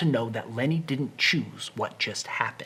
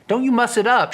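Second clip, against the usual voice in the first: higher, louder sharp warning; a hint of a warning Curley's wife; 9 semitones higher, 5 dB louder than usual. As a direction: warn him off her hair. Lulu warning Lenny.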